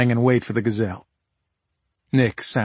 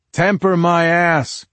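slow, loud, high-pitched scoff; drawn-out derisive outburst; scornful retort; 7 semitones higher, 5 dB louder, slower than usual. Acted. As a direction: throw the words back with contempt. Husband scornfully contradicts his wife.

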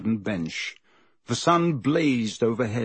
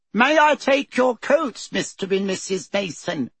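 put-on politeness; 8 semitones higher than usual. A narrator's reading. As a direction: greet guests with showy politeness. Dudley's rehearsed welcome from the hall.

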